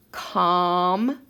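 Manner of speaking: "com-pete." very slowly, long pause between the syllables; split into syllables. Shown as a demonstration. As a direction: draw out COM, wait, then PETE in "com-pete.". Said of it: "break it apart into syllables".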